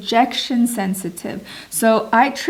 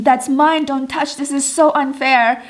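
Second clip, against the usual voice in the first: mildly acted, higher-pitched protest; re-enacted meltdown; 4 semitones higher than usual. Wife in meltdown telling husband off, mildly acted protest. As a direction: protest the unfairness, half in earnest. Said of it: "in my autistic meltdown saying".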